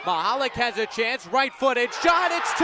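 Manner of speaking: building to a loud, high goal shout; climbing play-by-play to a big finish; excited goal call. Acted. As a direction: ride the shot into the net.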